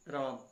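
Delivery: राम with its vowel stretched out; extra-long calling vowel. Shown as a demonstration. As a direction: draw राम out like calling a name. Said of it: "राम बोलोगे तो ज़्यादा समय लगेगा".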